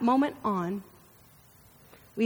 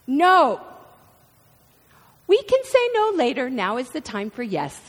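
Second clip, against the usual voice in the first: mom's cheerful reply; 2 semitones higher, 5 dB louder than usual. Retold or imitated. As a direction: sing it out like a cheery mother. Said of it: "I got responses like".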